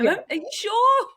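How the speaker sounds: high, laughing mock question; laughing disbelief. Student doubting the offer, laughing in high disbelief. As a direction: squeak it out through laughter.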